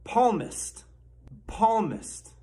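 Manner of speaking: "Palmist" high with a falling end; teaching pronunciation. Shown as a demonstration. Mock teacher modeling a simpler word, high demonstration. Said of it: "we have a word that's, that's much simpler".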